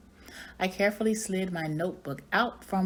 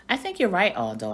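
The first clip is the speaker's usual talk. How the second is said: squeaky hamster; 3 semitones higher, 3 dB louder than usual. Acted. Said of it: "I squeaked".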